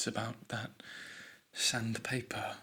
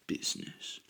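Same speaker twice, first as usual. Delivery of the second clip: softer whispered repeat of the word; mock-serious whisper; 3 dB quieter than usual. Shown as a demonstration. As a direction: breathe the word as a secret. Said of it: "This is serious business".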